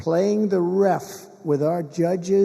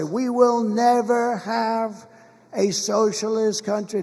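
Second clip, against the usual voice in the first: slow, higher oratorical quote; retold speech pledge; 4 semitones higher, slower than usual. Re-enacting a pledge from State of the Union, slow oratory. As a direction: proclaim it slowly, quoting a past address. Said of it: "I would say".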